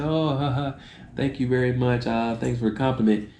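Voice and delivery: imitated flattered laugh. Stranger thanking someone for praising their accent, mock laughing. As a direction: act out laughing off a compliment. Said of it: "And they'll laugh".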